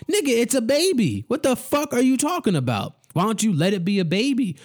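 fed up, throw the question at them; exasperated outburst. Real, not acted. Ranter scolding the news crowd, exasperated high yell.

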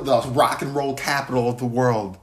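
mock host reveal building to high, loud shout; Chris Harrison. Co-host imitates a dating-show host's city reveal, big announcement. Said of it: "Chris Harrison, the host of the show".

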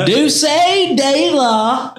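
dulce de la broken up by a high laugh. Real, not acted. Laughing at the friend's Spanish try. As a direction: laugh through it as you mock.

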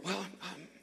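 very soft, hesitant retold opening; hushed conferring. Location managers back from whispering together, hushed and hesitant. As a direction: drop right down, feeling for the words. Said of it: "they start whispering".

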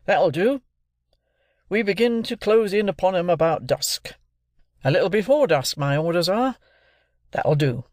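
a hint of a gruff soldier, brisk; the sergeant, matter-of-fact and a touch commanding; lightly voiced sergeant. A narrator's reading. Sergeant telling the company about the marshes, lightly voiced soldier.

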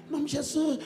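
a hint of a timid child praying; little pastor praying. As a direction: pray lightly in a small high voice. Imitating little girl pastor praying.

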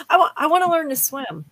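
real laughter while admitting she can't swim; laughing while talking. Real, not acted. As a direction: laugh it out, a bit embarrassed. Laughing at own confession.

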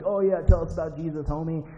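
mock him like a jeering prison gang; lightly acted sarcastic taunt. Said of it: "they're mocking him".

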